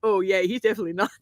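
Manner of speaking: quick, exaggerated impression of a banker; put-on banker voice. Banker reacting to grandfather's picture, badly imitated voice. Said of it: "He did not sound like that at all".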